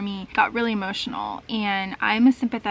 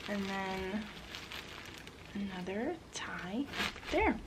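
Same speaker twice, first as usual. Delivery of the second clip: whispering; 13 dB quieter, slower than usual. Real, not acted. Whispering while wrapping.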